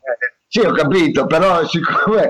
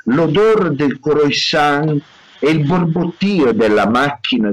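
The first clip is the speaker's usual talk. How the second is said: story narration. Acted. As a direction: set the scene like a novel's opening. Narratore legge il romanzo. (narrazione da romanzo, lenta)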